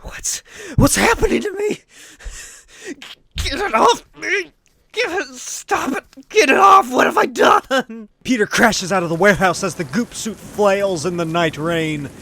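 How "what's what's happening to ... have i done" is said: much higher, louder frantic shouts; high terrified shouting; panicked screaming. Acted. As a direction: scream as the suit takes you over. Peter fights the goop suit.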